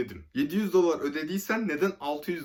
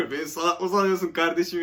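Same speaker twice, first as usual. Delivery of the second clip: louder, half-acted outrage quoting Habib; mock indignant retort; 4 semitones higher, 6 dB louder than usual. Friend Habib dictating a reply to scammers, louder mock indignation. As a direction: fire it back like a scornful friend. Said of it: "yaz dedi Habib".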